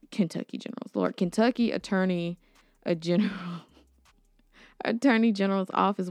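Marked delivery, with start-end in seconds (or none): 4.1-6.1 a real nervous laugh through the words; fast, giggling nervously through the title. Real, not acted. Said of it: "I'm laughing 'cause I'm nervous".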